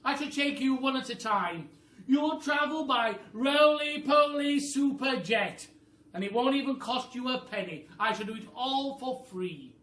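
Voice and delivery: high, loud bossy bird voice; a high, loud, clever-bird voice; roly-poly bird voice. Acted. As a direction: squawk it like a know-it-all bird. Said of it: "said the roly-poly bird".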